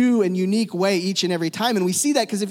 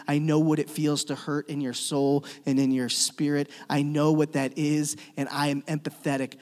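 tender reassurance; 3 semitones lower than usual. Acted. Preacher voices Christ comforting sufferers.

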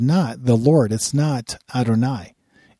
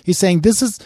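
booming voice of God; 6 semitones higher, 5 dB louder than usual. Acted. God's words, preached at full force.

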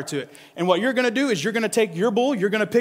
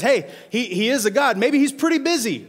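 higher, teasing taunt; mocking trash talk; 4 semitones higher than usual. Elijah taunting the prophets of Baal, mocking. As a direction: needle them, playful. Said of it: "He says".

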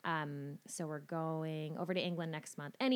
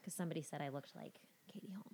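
whispering; 7 dB quieter, faster than usual. Real, not acted. Quick aside, unvoiced.

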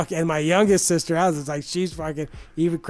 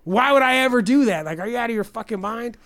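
indignant refusal; 2 semitones higher than usual. Retold or imitated. Refusing sister a job.

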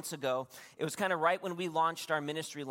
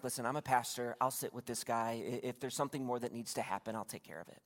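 low voice, fading softer at the end; quiet reassurance; 4 semitones lower, 5 dB quieter than usual. Retold or imitated. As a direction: retell calmly taking charge, discreetly. Retold pastor taking bystanders aside.

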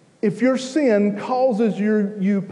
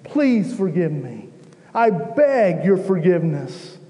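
contrite cry; 2 semitones higher than usual. Acted. Preacher voicing a sinner crying out to the Lord, contrite pleading. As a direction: beg earnestly for forgiveness in acted prayer. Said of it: "cry out with a contrite heart".

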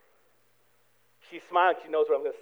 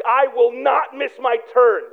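determined annoyance; slower than usual. Retold or imitated. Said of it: "And so much like".

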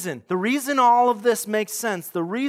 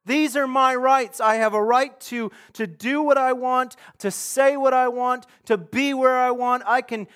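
mock entitled shouting; 3 semitones higher, 5 dB louder than usual. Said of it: "we scream at the top of our lungs".

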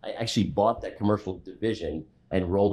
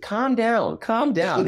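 imitating him; 4 dB louder, much slower than usual. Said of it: "telling me to calm down".

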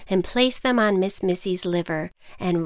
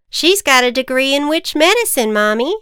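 put-on loud, higher kid; eager child voice; 6 semitones higher, 8 dB louder than usual. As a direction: kid insisting proudly. Child insisting.

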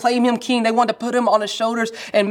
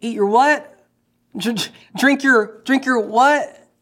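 incredulous shock; 3 semitones higher, slower than usual. Retold or imitated. Shocked crowd reacting.

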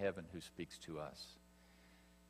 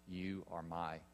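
slow, soft and lower, tenderly spoken; tender blessing; 3 semitones lower, 5 dB quieter than usual. Acted. Preacher speaking God's blessing over the baptized, soft and tender. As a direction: say it gently like a blessing over a child. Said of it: "the voice says the same thing".

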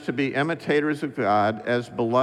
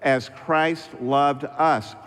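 slow reading that lands on "us"; stress on "us"; much slower than usual. Shown as a demonstration. Pastor repeating the verse to the church, stressing "us". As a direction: underline "us" with the voice, slowly. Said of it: "Underline the word us".

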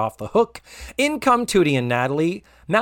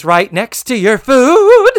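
sassy comeback; 9 semitones higher, 10 dB louder than usual. Retold or imitated. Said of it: "and she says".

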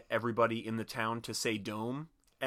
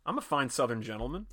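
put-on Southern gentleman accent. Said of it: "that was the accent I was doing".

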